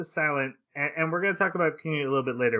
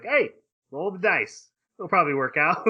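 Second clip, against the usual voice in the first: higher, casual shrug of a voice; breezy Askeladd; 4 semitones higher than usual. Retold or imitated. Telling friends what Askeladd answered, breezy and carefree. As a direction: toss it off lightly as a gambler would.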